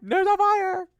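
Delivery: hammed-up frantic alarm; retold panicked cry. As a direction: imitate someone shrieking a warning. Acting out the fire quarrel.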